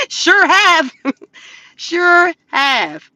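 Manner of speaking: real laugh through the words. Real, not acted. Host laughing with live chat about her mistakes. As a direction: giggle as you admit it.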